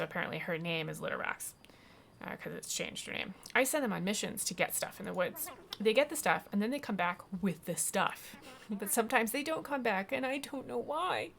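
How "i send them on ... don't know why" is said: mild acted woe, rising higher toward the end; hint of a plaintive character voice; lightly voiced fretful cat lady. Cat lady explains her missing cats, lightly plaintive.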